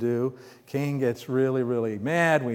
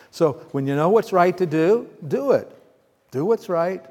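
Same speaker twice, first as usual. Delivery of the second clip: raised, high insistent exhortation; emphatic urging; 4 semitones higher, 6 dB louder than usual. Real, not acted. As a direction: press them to act, loudly. Urging the congregation.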